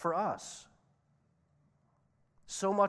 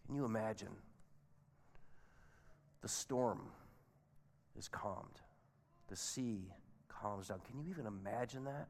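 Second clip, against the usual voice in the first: awed hush; 3 semitones lower, 10 dB quieter than usual. Real, not acted. Awed hush after storm stops.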